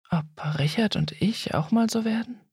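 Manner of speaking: tonlos geflüstert, nur für sich; geflüsterter Gedanke. A narrator's reading. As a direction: heimlich in sich hinein flüstern. Heimlicher Gedanke Susannes. (Susanne flüstert sich ihren Zweifel zu)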